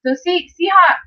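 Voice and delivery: real emotion breaking the voice; starting to cry. Real, not acted. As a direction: let the tears come through as she talks. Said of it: "I'm starting to cry a little bit".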